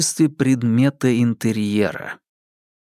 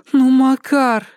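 higher, louder pleading whine; 14 semitones higher, 6 dB louder, slower than usual. A narrator's reading. Polina begs Makar to tell her, pleading loudly. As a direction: beg him to give in. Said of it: "взмолилась Полина".

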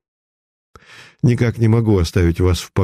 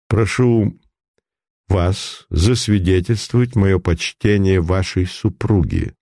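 society dandy. Acted. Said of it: "тоном великосветского денди".

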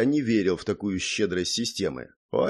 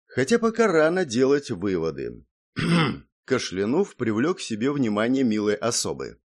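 ordinary delivery

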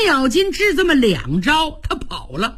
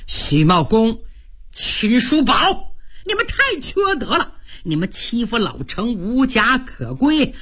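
muttered grudge. Acted. Cheng fumes leaving camp.

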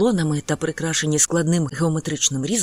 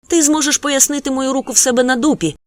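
higher, louder mock threat; mother threatening her son; grumbling threat; 8 semitones higher, 6 dB louder than usual. A narrator's reading. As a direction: threaten a spanking. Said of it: "пробурчала Анагіта".

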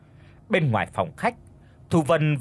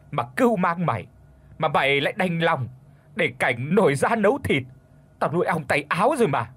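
angry scolding; 4 semitones higher than usual. Acted. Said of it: "mà quát".

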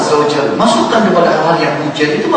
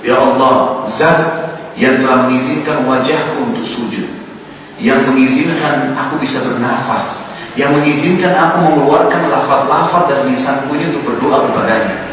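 humble prayer; 2 semitones lower than usual. Shown as a demonstration. Preacher showing how to praise God in night prayer, reverent. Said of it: "ya, bilang".

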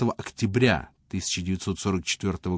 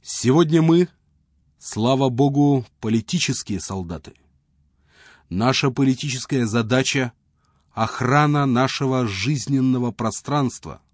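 roaring rallying speech; 2 semitones higher than usual. Retold or imitated. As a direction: rouse the troops like a commander. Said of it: "речь, с которой Ремер обратился к солдатам".

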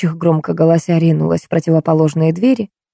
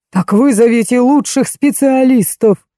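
higher, raised demanding yell; 6 semitones higher than usual. A narrator's reading. Baturin yelling at the doctor, high and demanding. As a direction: bellow the order at the doctor. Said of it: "заорал Батурин".

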